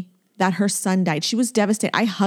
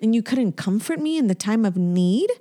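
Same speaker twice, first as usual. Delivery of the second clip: indignant reproach; 3 semitones higher than usual. Retold or imitated. Girlfriend addressing the partner who failed her, indignant reproach. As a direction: confront an absent partner, word by word at first. Addresses absent ex about missing comfort.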